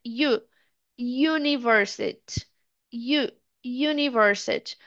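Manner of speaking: "university" slowly, starting "yoo"; U as "you". Shown as a demonstration. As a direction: isolate "U" as "you", then "university". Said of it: "o som é completamente diferente".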